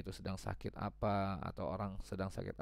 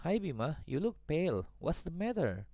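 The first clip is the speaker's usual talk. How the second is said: concerned friend Dona; 6 semitones higher than usual. Acted. Dona asks Bima.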